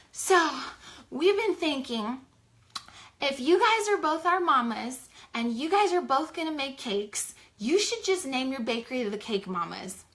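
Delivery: put-on high, breathless little girls pitching an idea; excited kids. Daughters out of breath telling their moms a name, high and eager. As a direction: play the eager daughters running up.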